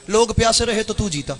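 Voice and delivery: line said low and subdued; soft try. Shown as a demonstration. Preacher testing the line softly, subdued. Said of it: "ऐसे नहीं, ऐसे नहीं".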